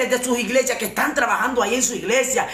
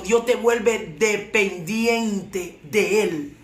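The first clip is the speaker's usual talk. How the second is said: very slow, drawn-out "dependiente de Él"; "dependiente de Él" spaced out slowly to let it sink in; slow emphasis; much slower than usual. Real, not acted. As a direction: stretch out "dependiente de Él" piece by piece. Preacher repeats phrase for emphasis.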